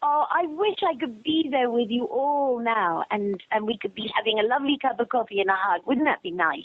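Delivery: wistful gush to the listeners; gushing warmth. Real, not acted. Gushing warmly to the fans.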